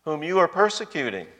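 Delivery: solemn, deliberate self-revelation; Jesus declaring himself. Retold or imitated. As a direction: draw out each word of the name, then lift the voice. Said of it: "notice what he says".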